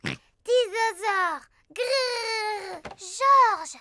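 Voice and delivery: sobbing little roar; a small child crying over a broken toy; crying toddler. Acted. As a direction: whimper the word through tears.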